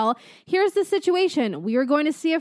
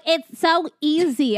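slow, drawn-out mimicry of braggers; mock the know-it-alls, stretching it slowly; mocking imitation; slower than usual. Mocking commenters who brag.

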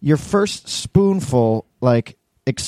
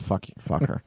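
much softer and lower, sheepish repeat; hushed, guilty repeat; sheepish quiet; 6 semitones lower, 9 dB quieter, slower than usual. Real, not acted. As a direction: say it small, embarrassed. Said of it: "I feel terrible".

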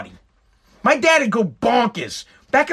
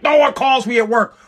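retold angry father; 4 semitones higher, 4 dB louder than usual. Furious father shouting at son.

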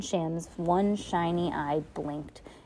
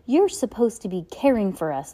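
higher, louder astonished reproach; 4 semitones higher, 7 dB louder than usual. A narrator's reading. Violet confronts Aunt Josephine, astonished. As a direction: protest in disbelief. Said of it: "said to Aunt Josephine in astonishment".

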